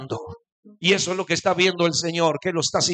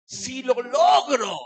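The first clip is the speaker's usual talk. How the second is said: Paul's vow; 5 semitones higher, 3 dB louder, slower than usual. Acted. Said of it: "Y dice Pablo".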